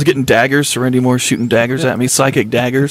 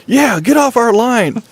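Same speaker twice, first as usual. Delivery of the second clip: much higher, slow, menacing mock voice; mock tough guy; 10 semitones higher, slower than usual. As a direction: play the creepy stranger on the radio, drawn out. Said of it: "And I start going".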